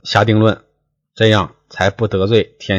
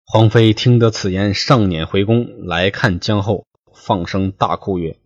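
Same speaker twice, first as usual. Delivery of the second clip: 说书人朗读古文; classical story reading. Acted. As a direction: read the old novel aloud like a storyteller. Reads classical novel text aloud.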